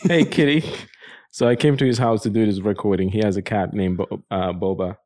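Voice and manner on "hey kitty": higher cooing voice for the kitty; pet talk. Real, not acted. To the cat biting him, a higher cooing pet voice.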